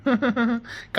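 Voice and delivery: short, soft happy laugh; chuckle. Acted. New father asked for a treat, chuckling. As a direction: chuckle before agreeing.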